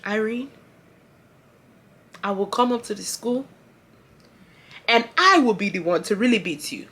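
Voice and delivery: put-on measured, quiet African-accented threat; African mother. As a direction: African mom's calm warning, long pauses. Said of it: "My mom literally said".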